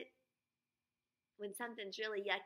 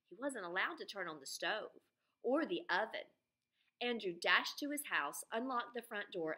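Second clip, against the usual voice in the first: lively read-aloud story voice; storybook narration for young listeners; reading to children. Acted. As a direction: tell it to a class of kids. Reads Freckle Juice aloud to class.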